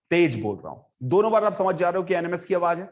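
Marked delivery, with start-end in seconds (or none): 0.1-0.8 raised volume, low in pitch; demonstrated loud speaking. Shown as a demonstration. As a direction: push out the louder take. (तेज आवाज़ में)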